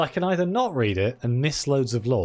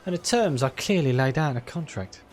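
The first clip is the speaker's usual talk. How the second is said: put-on Cockney accent; 3 semitones higher than usual. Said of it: "I just decided to go full Cockney with that guy".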